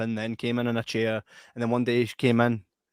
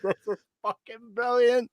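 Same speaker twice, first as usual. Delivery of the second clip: sarcastic; 10 semitones higher, slower than usual. Retold or imitated. Sarcastic inner quote.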